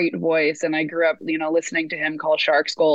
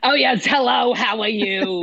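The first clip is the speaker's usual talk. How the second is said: lightly voiced New York grandma, a bit higher; a hint of the old grandmother's greeting; 3 semitones higher than usual. Granddaughter imitating her grandmother's greeting for the host, lightly done. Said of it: "your vocal rendition".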